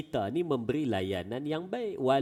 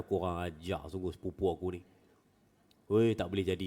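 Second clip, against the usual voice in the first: mild angry mutter; 5 semitones lower than usual. Retold or imitated. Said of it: "jangan faham Abu Darda orang Kedah pula".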